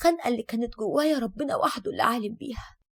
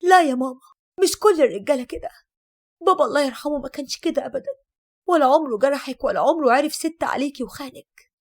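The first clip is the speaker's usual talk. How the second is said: louder, indignant protest to mother; angry objection; 4 dB louder than usual. Acted. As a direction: object angrily, hitting the first words hard. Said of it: "وقلت لها بغضب".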